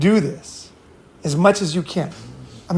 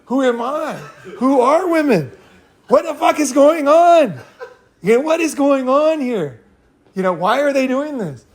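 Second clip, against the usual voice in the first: bewildered; 7 semitones higher than usual. Retold or imitated. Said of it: "I was asking myself".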